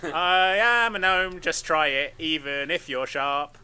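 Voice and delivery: lightly voiced dopey gnome, half laughing; a hint of a proud dim gnome, giggling through it; goofy gnome voice. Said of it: "and be like".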